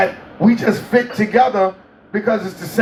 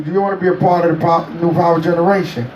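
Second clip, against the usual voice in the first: imitating a singer; 4 semitones lower, much faster than usual. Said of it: "he said".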